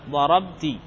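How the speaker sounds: ضربت with a still b and a clear -ti ending; voweled final ta. Shown as a demonstration. Grammar teacher showing the subject ta, ضربت ending in -ti. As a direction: say ضربت as darabti, ending in a short i. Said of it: "كل متحرك".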